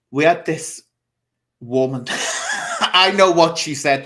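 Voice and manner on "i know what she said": real laughter breaking into the words; louder, apologising through real laughter; laughing. Real, not acted. Host cracking up at the remembered remark, laughing. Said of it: "That's why I'm laughing".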